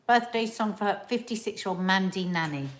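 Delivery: talking while chewing blueberries; wolfing down food. Real, not acted. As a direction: eat and talk at once, loudly. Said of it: "eating blueberries really loudly in my ear".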